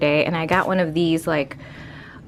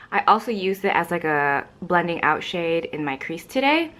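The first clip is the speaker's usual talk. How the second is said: out of breath. Real, not acted. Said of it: "I don't know why I'm so out of breath".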